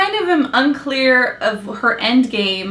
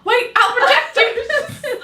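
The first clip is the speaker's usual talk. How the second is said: higher, slow chivalrous promise; mock gallant hero; 10 semitones higher, slower than usual. Gunman chasing the woman, slow hammed-up gallantry. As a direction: lay the gallantry on thick. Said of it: "He's like".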